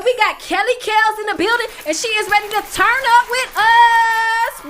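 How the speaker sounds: loud, high hype announcer. Acted. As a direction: boom it out like a fight announcer. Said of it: "let me get my announcer voice on".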